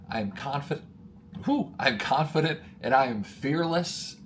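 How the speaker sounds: affirmations to yourself in the mirror, getting worked up; building affirmation. Shown as a demonstration. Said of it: "Look at yourself in the mirror".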